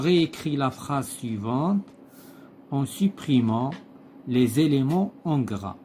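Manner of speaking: slow, deliberate read-aloud of the text; slow textbook reading. Acted. Teacher reading the textbook passage to pupils, slow and deliberate. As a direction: read each phrase slowly, like dictation to the class. Teacher reads exercise instruction.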